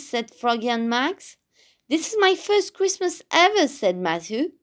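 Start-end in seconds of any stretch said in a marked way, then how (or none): 1.9-3.7 high, quick storybook excitement; excited. A narrator's reading. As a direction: gush with childlike delight. Character's delight at first Christmas.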